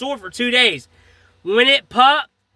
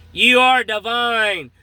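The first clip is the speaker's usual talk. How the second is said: slow, drawn-out divine proclamation; lightly imitated voice from above, slow; thunderous voice; slower than usual. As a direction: retell a booming pronouncement, stretching each word. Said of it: "it's like thunder".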